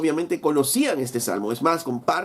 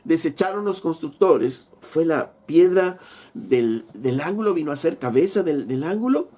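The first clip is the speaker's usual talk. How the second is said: higher, mock-scolding preacher voice, slowing on the stone; sarcastic; 4 semitones higher than usual. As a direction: needle them with a rising, pointed taunt. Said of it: "sarcásticamente Jesús les dice".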